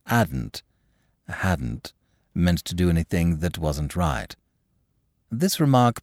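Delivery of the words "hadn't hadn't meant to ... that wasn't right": bleating. Acted. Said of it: "said in a bleating voice".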